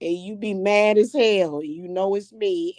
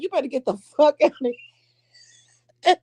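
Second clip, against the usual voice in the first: mock stern order; 6 semitones higher, 4 dB louder, faster than usual. Ordering spirit out.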